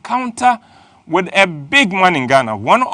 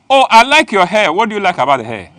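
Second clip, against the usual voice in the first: imitating girls; 3 semitones higher, 4 dB louder, faster than usual. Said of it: "we are not like girls when you say".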